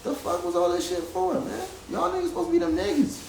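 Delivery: yelling at them in frustration before walking out; furious yell that fades off at the end; angry outburst. Retold or imitated. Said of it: "I was mad".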